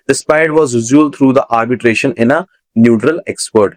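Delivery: slow dictation of an English sentence; slow reading. Shown as a demonstration. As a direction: read the example sentence very slowly, word by word. Teacher reading example sentence slowly.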